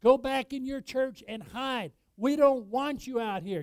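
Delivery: loud, high mock shout. Pastor imitates opponents shouting Christians down, loud and high. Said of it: "they are shouting us down".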